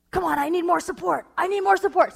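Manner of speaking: high, loud urgent radio call; mock spy calling backup. Husband hamming up a spy calling for support. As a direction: beg for reinforcements like a movie agent. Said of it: "totally going for it".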